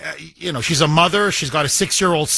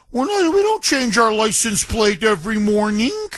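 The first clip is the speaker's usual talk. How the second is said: mocking; 3 semitones higher than usual. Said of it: "who's mocking him".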